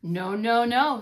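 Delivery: firm loud no; loud refusal. Acted. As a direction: shout the no's. Wolves refuse the pig loudly.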